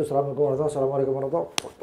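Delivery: hurried, mechanical salam; quick mock run-through of the prayer's end; rushed prayer ending. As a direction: rattle off the closing salam.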